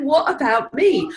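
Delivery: hammed-up wife laughing What about me; laughing defiance. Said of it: "She's like".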